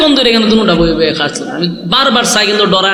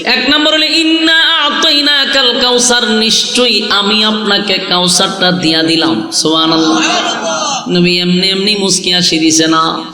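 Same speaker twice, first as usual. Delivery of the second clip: melodic preaching. Real, not acted. Preacher tells how God pleased the Prophet, melodic preaching. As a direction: intone it and draw out phrase endings.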